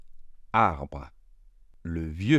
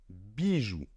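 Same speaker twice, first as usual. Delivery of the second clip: soft; 6 dB quieter than usual. Shown as a demonstration. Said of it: "Il se prononce ainsi".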